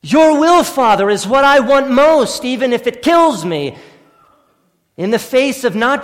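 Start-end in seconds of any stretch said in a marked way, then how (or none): 0.0-3.8 fervent cry. Pretend. Fervent paraphrase of prayer.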